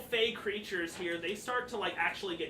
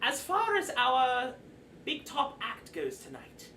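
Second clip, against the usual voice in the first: Mister Light announcing; 5 semitones higher than usual. Acted. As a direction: open grandly, then ease down. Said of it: "he's like".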